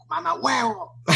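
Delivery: high, loud mock yell at a driver; road rage yell. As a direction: yell it at the guy who nearly hit you. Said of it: "un tipo que estás manejando". (grito de enojo fingido a un conductor)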